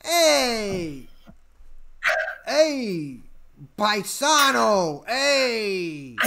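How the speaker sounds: hammed-up, high Brooklyn catcaller; Brooklyn accent. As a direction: call out with stretched Brooklyn vowels. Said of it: "Uh, Brooklyn accent".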